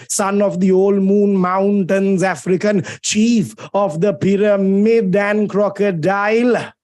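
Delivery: slow, measured verse reading; poem recitation. Acted. Teacher reads Keats to his class, slow recitation. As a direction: recite the verse with drawn-out words.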